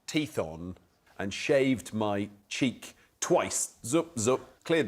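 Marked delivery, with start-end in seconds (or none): 3.9-4.4 two quick imitated shaver swipes; imitated trimmer noise. Panellist showing how he shaved his cheek, imitated trimmer noise. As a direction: voice the strokes of the trimmer.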